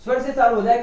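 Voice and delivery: emphatic answer. Shown as a demonstration. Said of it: "teacher repeating answer".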